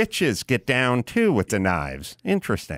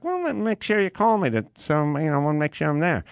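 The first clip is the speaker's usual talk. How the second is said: higher, insistent friendly voice; imitating Leno; 5 semitones higher, faster than usual. Leno insisting his friend call ahead, higher pitched. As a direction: press him to call first.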